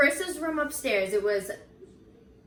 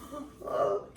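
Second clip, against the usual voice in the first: gasp; 3 semitones lower, 4 dB quieter than usual. Retold or imitated. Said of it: "Me and Chris were just like".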